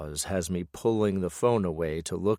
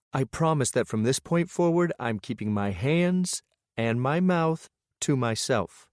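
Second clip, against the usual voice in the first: higher, earnest woman's voice; a hint of a woman making amends; lightly voiced woman; 5 semitones higher than usual. Lillian promising.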